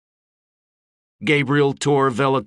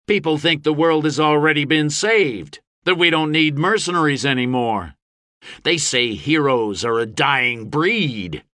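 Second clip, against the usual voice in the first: raised, higher orator's voice; goading speech; 5 semitones higher than usual. A narrator's reading. Gabe goading restless mercenaries, provocative speech. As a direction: stir up the crowd.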